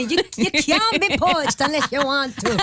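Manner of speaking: high, giggly protest; laughing while talking. Real, not acted. Guest laughing off the host's claim, giggling. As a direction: laugh through the words as you deny it.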